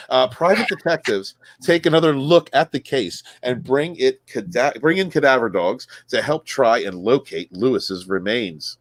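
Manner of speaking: reading a news story aloud with punched key words. Acted. Host reading a missing-husband news story to co-hosts, newsreader delivery. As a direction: read the article out like a casual newscaster.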